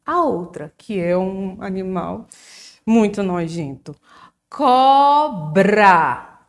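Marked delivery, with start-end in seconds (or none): 4.5-6.4 "Cobra" split into two drawn-out beats, loud; syllable by syllable. Shown as a demonstration. Teacher showing the class the two syllables, "Cobra" broken into beats. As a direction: say "Cobra" as CO, BRA, each syllable held. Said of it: "Foram duas vezes".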